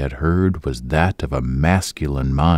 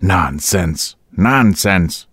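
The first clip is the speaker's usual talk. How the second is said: indignant; much slower than usual. A narrator's reading. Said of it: "cried Boyce indignantly".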